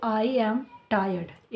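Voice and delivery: very slow, "tired" stretched; careful demo; slow model sentence. Shown as a demonstration. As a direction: teach it slowly. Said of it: "teacher repeats model sentence".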